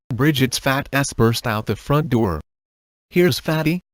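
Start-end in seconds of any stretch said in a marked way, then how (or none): 3.1-3.8 screamed. A narrator's reading. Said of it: "she screamed".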